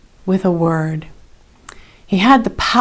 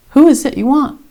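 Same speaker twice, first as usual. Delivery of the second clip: higher and louder, calling out; commanding question; 7 semitones higher, 4 dB louder than usual. A narrator's reading. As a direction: challenge the armed crowd. Jesus confronts the crowd.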